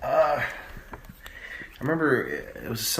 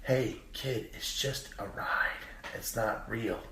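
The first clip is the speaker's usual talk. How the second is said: breaking character; 7 dB quieter, slower than usual. Retold or imitated. Ride actor to a crying kid, breaking character. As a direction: drop to a soft, confiding near-whisper. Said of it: "one of the guys actually broke character".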